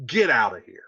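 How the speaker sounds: mock her, then bark her out; sarcastic scorn. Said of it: "He's like".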